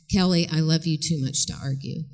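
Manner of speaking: low, even, unprovoked; calm mother. Acted. Mother answering her arguing teenage daughter, calm and firm. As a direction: hold steady and refuse the fight. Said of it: "Terry looks at her and says".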